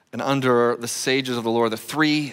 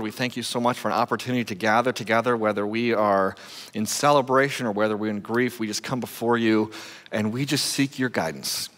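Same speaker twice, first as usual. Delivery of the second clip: prayer; 2 semitones lower than usual. Acted. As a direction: pray humbly, letting the end drop away. Opening prayer before the study.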